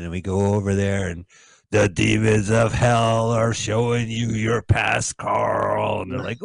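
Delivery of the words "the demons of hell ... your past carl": slightly eerie, slow drawn-out delivery; lightly hammed-up slow doom line; ominous film character. Acting out a film's plot.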